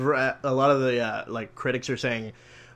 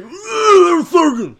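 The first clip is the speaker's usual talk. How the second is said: much higher, louder swooning shout; mock swooning fan; 10 dB louder, slower than usual. Mocking fans swooning over Sorkin, high and loud. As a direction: gush over Sorkin like a fangirl.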